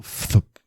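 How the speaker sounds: small imitated wing noise; subtle thump. A narrator's reading. Narrator imitates a cooing dove, subtle thump. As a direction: make a little puff of a thump. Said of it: "It makes a subtle".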